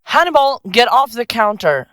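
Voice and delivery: high-pitched pet scolding; scolding the cat. Acted. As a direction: shoo a naughty cat away.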